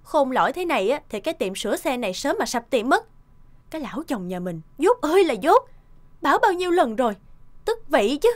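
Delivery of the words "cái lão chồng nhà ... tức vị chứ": annoyed grumbling. Acted. Wife fuming about her husband.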